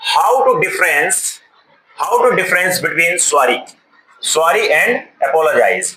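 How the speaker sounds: very slow, word by word; reading the board aloud. Shown as a demonstration. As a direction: spell out each word slowly for the class. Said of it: "अब क्या लिखा है यहाँ". (Board से धीरे-धीरे पढ़ना)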